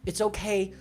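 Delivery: consoling the scared cat Jinx during the storm, soft and reassuring; soothing the cat. Retold or imitated. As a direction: comfort a frightened pet gently. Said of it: "I found myself being like".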